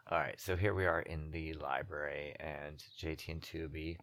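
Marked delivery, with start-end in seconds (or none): 3.0-4.0 Canadian accent. Real, not acted. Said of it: "I don't know where my Canadian accent just came to".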